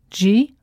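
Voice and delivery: Ge-o-gra-phy split into four separate syllables; syllables spelled out. Shown as a demonstration. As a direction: break Ge-o-gra-phy into four clear beats. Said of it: "geography has four syllables".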